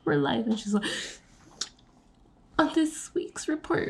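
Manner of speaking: quick high-pitched reporter impression; mock reporter. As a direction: imitate a Vine newscaster.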